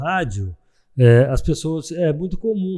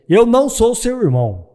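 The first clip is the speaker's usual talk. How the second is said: mock emphatic denial; 9 semitones higher, 6 dB louder than usual. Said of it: "Aí o Pedro falou assim".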